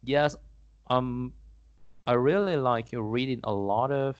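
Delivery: slow, deliberate English read-out; measured classroom English; model exam answer. Acted. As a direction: answer slowly, as a demonstration for learners.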